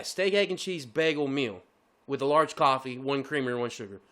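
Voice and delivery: slow and deliberate. Retold or imitated. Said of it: "I make sure I say what I say".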